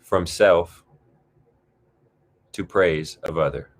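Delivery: measured meditation voice with long pauses; guided meditation. Acted. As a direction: guide them gently into the breath. Leads a guided breathing exercise.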